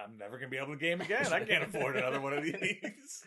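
hammed-up gamer heartbreak; mock despair. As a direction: rattle off a mock lament for the ruined console. Imagines kid ruining his Xbox.

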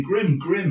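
"Grim" repeated in place of Graham; "Grim", Graham squashed to rhyme with "him"; imitated American mispronunciation. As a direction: say "Grim" as one short syllable, mimicking the coach. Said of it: "they say Grim".

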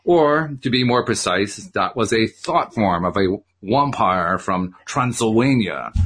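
slow, mock-thick Transylvanian accent; thick vampire accent. Shimoda explains the thought form, playfully thick Transylvanian accent. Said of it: "he said in words thicker than the creature's own".

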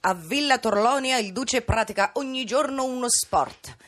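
stentorian nasal newsreel read. Acted. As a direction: read it like an old fascist newsreel, through the nose. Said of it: "uso la voce nasale come nel spettacolo".

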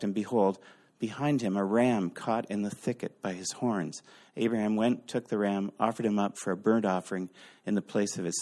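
measured reading of scripture, lightly intoned. Acted. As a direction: read the Bible passage aloud with gravity. Reads scripture passage aloud.

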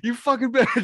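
high, loud mock-enraged scream; over-the-top screeched insult; screaming at her. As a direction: scream abuse in hammed-up fury. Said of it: "Just start fucking screaming at her".

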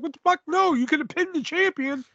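very high, exasperated disbelief; mock outrage yelled at the commentator; incredulous outburst. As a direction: shriek it up in disbelief at the call.

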